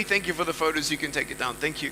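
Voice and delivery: low, soft aside to the crew; quick aside. Real, not acted. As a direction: drop your voice for a polite aside. Aside to crew about photos.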